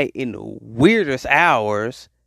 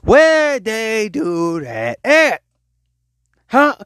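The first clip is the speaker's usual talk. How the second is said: exasperated; 4 semitones higher, 3 dB louder, much slower than usual. Real, not acted. Exasperated rhetorical outburst.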